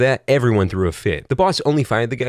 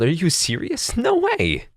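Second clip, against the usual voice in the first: high, startled yell; laughing yell; 9 semitones higher, slower than usual. Retold or imitated. Teen answering grandma's call, yelling in disbelief. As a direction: blurt it out in disbelief. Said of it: "I laughed and yelled".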